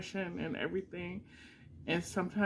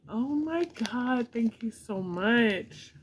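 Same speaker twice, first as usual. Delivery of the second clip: overwhelmed thanks; 5 semitones higher, 4 dB louder, slower than usual. Real, not acted. Overwhelmed opening fan gifts.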